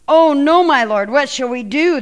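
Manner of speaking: high, loud cry of alarm; panicked servant. Acted. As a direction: servant panics as the army surrounds him. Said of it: "this servant asked".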